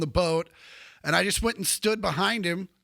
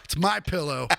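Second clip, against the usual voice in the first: mocking My Pillow pitch. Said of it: "Lindell, you fucking scam artist".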